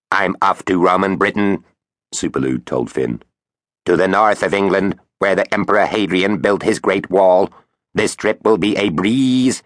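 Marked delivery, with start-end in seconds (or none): 0.1-1.6 light quacky robot voice; a hint of a talking-toilet robot. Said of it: "Its quacky robot voice". 3.8-9.6 quacky robot voice, boastful; bragging robot voice. Acted. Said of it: "it bragged".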